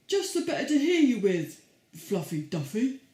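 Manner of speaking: a loud, sly wolf in disguise. Acted. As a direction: boom it out like a sneaky wolf. Wolf voiced in the story.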